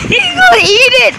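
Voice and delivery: laughing. Real, not acted. Laughing while watching a friend crash.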